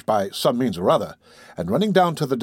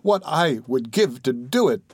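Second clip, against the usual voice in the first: lightly voiced earnest boy, higher at first; eager grateful Oliver; 5 semitones higher than usual. Oliver pleads to be of use, eager and grateful. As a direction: let the wish pour out, slowing at the end.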